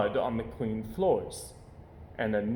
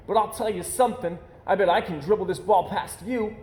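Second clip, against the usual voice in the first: cub voice; 7 semitones higher, faster than usual. Acted. Cub Brother boasting in story.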